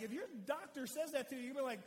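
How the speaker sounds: usual speaking voice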